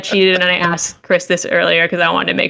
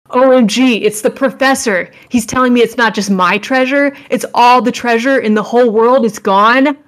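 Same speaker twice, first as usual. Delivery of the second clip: put-on cute anime girl voice; 4 semitones higher than usual. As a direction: play the excited anime girl. Voicing the anime heroine.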